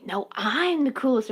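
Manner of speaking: drawn-out mock boast; mock bragging. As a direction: play up a smug, slow boast. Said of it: "especially the way the tone was".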